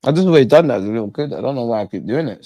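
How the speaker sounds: talking while chewing; words around a bite of food; mouth full. Real, not acted. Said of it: "Sorry for talking with my mouth full".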